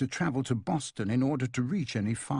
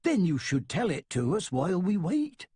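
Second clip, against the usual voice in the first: put-on smiling invitation, lifted higher in a faint accent; with a smile; 6 semitones higher than usual. A narrator's reading. Woman invites Bailey to tell his story, smiling. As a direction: invite him kindly, smiling through it. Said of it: "she says with a smile".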